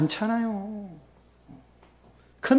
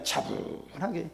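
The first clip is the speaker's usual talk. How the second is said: 차분하게 said very softly and slowly; slow the word 차분하게 right down and drop the volume; calm; 15 dB quieter, much slower than usual. Shown as a demonstration. Preacher showing the calm prayer after peace comes, soft and slow.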